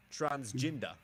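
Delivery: "Transgender" in a New Zealand accent, ending "-jin-duh"; Kiwi-style "Transgender", tentative imitation; Kiwi pronunciation. Shown as a demonstration. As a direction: say "Transgender" with a short i and no final r. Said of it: "How do Kiwis pronounce transgender".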